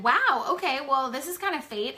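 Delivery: light up at the lucky coincidence; excited. Retold or imitated. Speaker telling classmate it's fate, excited and loud. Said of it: "So I said".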